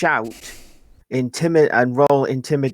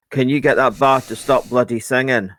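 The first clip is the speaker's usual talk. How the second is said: a hint of a stroppy teenage girl; lightly voiced cheeky intimidation; Vicky Pollard; 3 dB louder than usual. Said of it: "I turned into Vicky Pollard".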